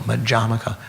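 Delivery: Madhyamaka with the second syllable stressed. Shown as a demonstration. Teacher repeating the system's name Madhyamaka, second syllable stressed. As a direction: lean on the DHYA of Madhyamaka. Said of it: "the emphasis on the second syllable".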